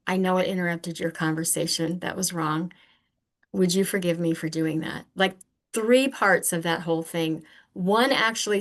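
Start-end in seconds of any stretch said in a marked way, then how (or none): 0.1-5.1 sincere apology. Retold or imitated. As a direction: apologize gently and mean it. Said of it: "I would acknowledge that it was wrong".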